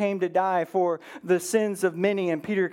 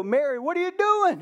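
Martha's shout, higher and louder; exasperated call; 9 semitones higher, 4 dB louder than usual. Acted. Martha calling out to Mary in exasperation. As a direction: snap at a lazy sister.

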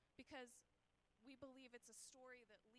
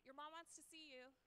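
"wants" lifted higher and pressed; stress on wants; 4 semitones higher than usual. Shown as a demonstration. Messenger passing on a mother's call, stressing "wants". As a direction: lean on the word "wants". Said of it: "he could say it any number of ways".

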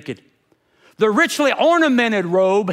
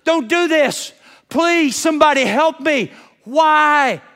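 higher, pleading for life; begging for my life; 8 semitones higher, 4 dB louder, slower than usual. Retold or imitated. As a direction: beg them not to do it. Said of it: "Joseph begged for his life".

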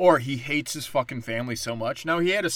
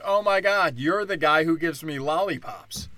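put-on excited little girl; 4 semitones higher than usual. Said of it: "she was like".

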